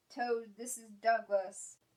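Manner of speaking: ordinary delivery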